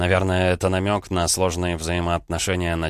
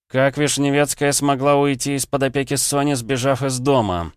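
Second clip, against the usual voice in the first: higher, mildly sharp demand; 8 semitones higher, 4 dB louder than usual. A narrator's reading. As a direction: put the question sharply, pitch raised. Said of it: "резко спросил я у Дубова". (резко, повышенным тоном)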